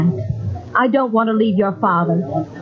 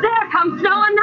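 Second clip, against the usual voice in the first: higher, eager call to the crowd; a bystander eagerly spotting the prophet; excited announcement; 9 semitones higher than usual. Acted. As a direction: point him out with excitement. Crowd member spots Noah arriving.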